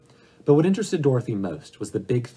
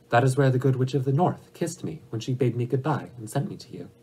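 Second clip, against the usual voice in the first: lightly voiced little girl, higher-pitched; a hint of an earnest child explaining; Dorothy; 4 semitones higher than usual.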